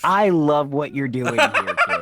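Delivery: slow, laughing mock director. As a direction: give notes like a hammy director. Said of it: "I'm gonna give you some notes".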